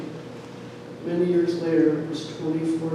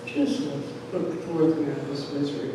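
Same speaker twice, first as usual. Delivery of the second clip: softer, lower, quick aside; offhand father; 4 semitones lower, 5 dB quieter than usual. Retold or imitated. Father, on the other hand, wanting it over, offhand. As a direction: toss it off as the unmoved dad.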